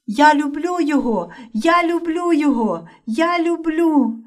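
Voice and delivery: high repeated calling, slowing at the end; calling after. A narrator's reading. Yulia calling after Roman as he is taken, high and pleading. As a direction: call after him over and over. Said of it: "Вона все гукала вслід".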